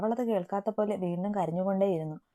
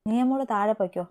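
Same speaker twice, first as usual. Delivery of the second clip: firm, louder command; stern order to leave the room; seriously; 2 semitones higher, 5 dB louder than usual. Acted. Eby sternly sending Nia downstairs, firm. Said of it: "അവൻ ഗൗരവത്തിൽ പറഞ്ഞു".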